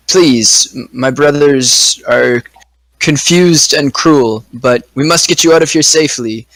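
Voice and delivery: slow, earnest plea to the giants; slow pleading character voice. Acted. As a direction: beg gently, drawing each word out. Player speaks as her character.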